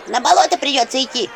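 lamenting. A narrator's reading. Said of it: "причитала Анчутка".

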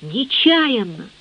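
ordinary delivery, nothing marked

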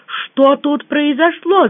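high, drawn-out alarmed question; mild cry out. A narrator's reading. Narrator walks in on the wreckage, mild cry. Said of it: "закричала я".

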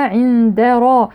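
slow عند را with thin د and thick ر; light dal, heavy ra. Shown as a demonstration. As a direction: keep the د in عند light, then darken را. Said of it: "ثم الراء مفخمة".

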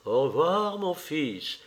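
a mild stagey goodbye; theatrical farewell. Acted. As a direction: play to an imaginary gallery. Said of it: "avec un salut théâtral". (un adieu théâtral, un peu appuyé)

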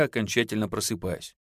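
usual speaking voice

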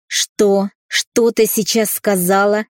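a father growling his disbelief; a furious father's loud growl. A narrator's reading. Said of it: "прорычал отец".

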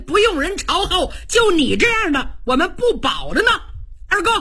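Cheng Yaojin's indignant tirade, pitched high; a hot-tempered general blasts the adviser who fired him; heated outburst. Acted. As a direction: blurt out your grievance, fast and hot. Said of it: "程咬金一看就急了".

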